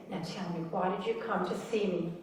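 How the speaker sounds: soft, kindly question; gentle doctor. Retold or imitated. Doctor gently asking the patient why she came, quietly. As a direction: ask it quietly like a caring doctor. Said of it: "He was so sweet".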